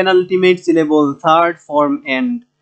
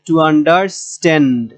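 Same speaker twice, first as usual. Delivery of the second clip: to understand slowly, with STAND held; teacher's slow understand, weight on the final syllable; stress on last part; much slower than usual. Shown as a demonstration. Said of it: "verb হলে শেষের অংশটা এসে".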